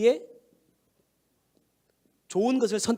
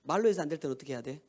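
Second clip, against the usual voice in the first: softer question; 7 semitones lower, 5 dB quieter, faster than usual. Shown as a demonstration. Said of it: "우리 아들 잠이 확 깬다".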